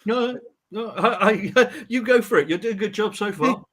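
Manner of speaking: high-pitched, talking through laughter; amused, laughing. Real, not acted. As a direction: laugh as you wave the offer away. Amused, declines to take over.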